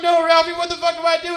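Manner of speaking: high, very loud frantic cry; panicked plea. Retold or imitated. Stoned comic begs the headliner for help, panicked high shout. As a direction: play up desperate panic.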